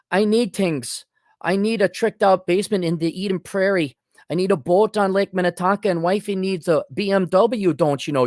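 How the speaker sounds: put-on Minnesota accent, mildly exaggerated. Shown as a demonstration. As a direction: do a Minnesota man listing his wants. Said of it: "This is the Minnesota accent".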